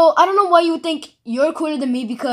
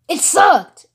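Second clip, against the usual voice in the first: laughing shout; 3 semitones higher than usual. Real, not acted. Mocking the rap.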